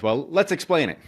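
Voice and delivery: gnome explaining. Retold or imitated. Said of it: "And the gnome says".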